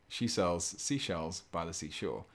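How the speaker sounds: slow, measured run at the twister; careful tongue twister. Shown as a demonstration. Streamer repeating the twister for chat, slow. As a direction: take it steady, word by word. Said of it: "I just want to say it once".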